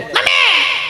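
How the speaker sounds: put-on high child's cry. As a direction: wail for mummy like a fallen kid. Child falls and cries out.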